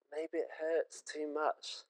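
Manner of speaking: softly. Real, not acted. Sermon, tender pause.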